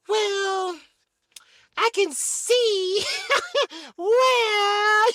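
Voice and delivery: high laughing mock cry; wife softens at the money. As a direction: gasp through laughter.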